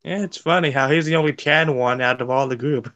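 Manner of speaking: ordinary delivery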